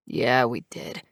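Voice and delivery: proud, reassuring, not cocky. A narrator's reading. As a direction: settle them with calm pride. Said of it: "not cocky but a proud, reassuring way".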